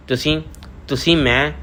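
halting start, left hanging; hesitant, with a pause between attempts; faltering, unfinished. A narrator's reading. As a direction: try to speak and break off. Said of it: "ਆਪਣੇ ਵਾਕ ਨੂੰ ਪੂਰਾ ਨਾ ਕਰ ਸਕੀ".

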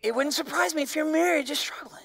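pointed whispered aside. Real, not acted. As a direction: lean in and whisper it to the congregation. Preacher drops voice for effect.

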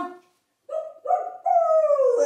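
high loud playful woofs; dog barking. Pretend. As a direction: bark like a happy dog. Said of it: "shake a tail".

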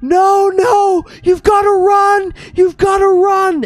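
high, loud desperate ghost wail; ghostly shrieking. Acted. Ghostly visages warning the fleeing party, high shrieking wail. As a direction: wail it like a doomed spirit. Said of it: "ghostly visages say".

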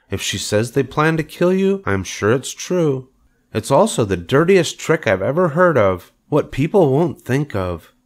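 lightly voiced, measured and sure; Charlotte. A narrator's reading. Charlotte confirms the bad news to Wilbur, thoughtful character voice. Spider figure speaking.

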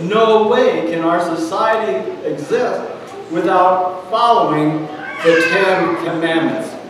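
emphatic declaration leaning on "no way". Real, not acted. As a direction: stress "no way", then carry the firm statement to a falling close. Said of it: "I say emphatically".

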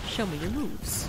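a light, mock Captain Falcon taunt; tossed off like the fighter's cocky taunt. Caster quoting Captain Falcon's taunt, lightly voiced. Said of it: "it's Captain Falcon's taunt".

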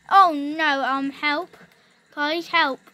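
loud panicked "help"; alarmed call for help. Real, not acted. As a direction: cry out for help in a rush. Calling for help in game.

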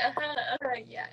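soft, half-hearted agreeing murmur; feigned agreement. Retold or imitated. Retelling how she fakes understanding fast talkers, soft feigned agreement. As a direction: nod along softly without understanding. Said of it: "I'll be agreeing".

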